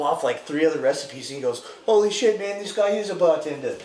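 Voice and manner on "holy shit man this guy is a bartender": retold astonished outburst; mock amazement. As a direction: imitate an officer who is suddenly impressed. Imitated officer impressed by recipes.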